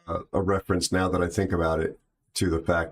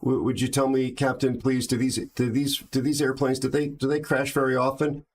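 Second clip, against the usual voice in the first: put-on higher, halting old lady voice with stammered repeats; trembling old lady; 6 semitones higher than usual. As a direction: play a frightened granny asking the pilot. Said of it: "She says".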